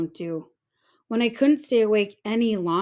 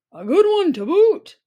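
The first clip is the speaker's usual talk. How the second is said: loud, high chorus of pirates; pirate crew agreeing; 9 semitones higher, 8 dB louder than usual. A narrator's reading. Pirate crew cheers agreement, loud and high. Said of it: "the others agreed".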